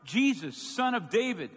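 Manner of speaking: loud, high cry for help; shouting. Acted. Blind beggar shouting to Jesus over the crowd, loud. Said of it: "So he began shouting".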